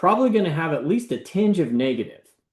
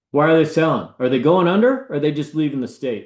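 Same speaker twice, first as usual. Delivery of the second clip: louder retold quote. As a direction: repeat the buyer's question louder and more pointed. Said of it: "That's what he said".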